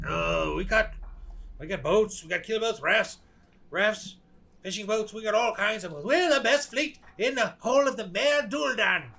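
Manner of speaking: captured boatman bragging, rising in pitch; a mildly acted braggart; lightly voiced boastful prisoner. Prisoner telling captors about his fleet, building to a proud boast.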